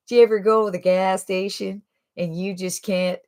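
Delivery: imitating a Southern Alabama accent; lightly put-on Southern accent, folksy storytelling; Jimmy. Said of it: "He talks real nice and slow with an accent".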